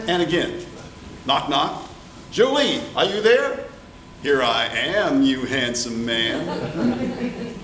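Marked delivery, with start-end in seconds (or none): 2.3-3.6 calling out. Acted. Pierre calls at door. 4.2-7.5 flirty. Acted. Jolie flirts again.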